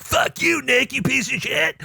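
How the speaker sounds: high, slow mock shout; hammed-up insult yell; mock outburst. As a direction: yell it like the angry post you didn't make. Imagined chat outburst.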